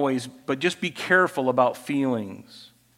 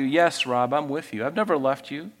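reassuring God; 2 semitones lower than usual. Acted. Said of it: "God reminds you".

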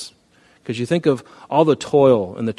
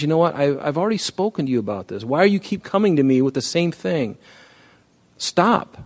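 fed-up God; 4 semitones higher than usual. Retold or imitated.

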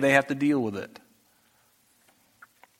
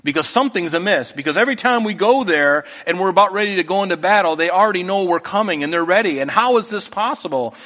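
mildly agitated retold complaint, building higher; angry king; 3 semitones higher than usual. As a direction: act out a king's exasperated suspicion. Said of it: "he had every reason to be angry".

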